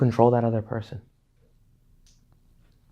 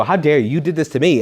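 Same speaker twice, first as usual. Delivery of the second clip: mock indignation; 3 semitones higher, 4 dB louder than usual. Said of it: "I'm gonna go".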